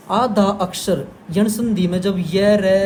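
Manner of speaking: slow, spelled-out आधा अक्षर with each syllable weighted; teacher drawing out आधा अक्षर so students catch it; slow careful stress. Shown as a demonstration. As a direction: lay out आधा अक्षर slowly, like dictating a rule. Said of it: "बहुत ध्यान से सुनना मैं क्या बता रहा हूँ".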